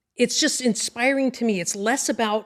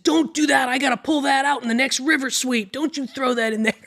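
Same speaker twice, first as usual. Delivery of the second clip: mild mock yell, a bit higher and louder; retold yell; 5 semitones higher, 4 dB louder than usual. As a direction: scold a buddy, half-shouted. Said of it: "and I yelled at him".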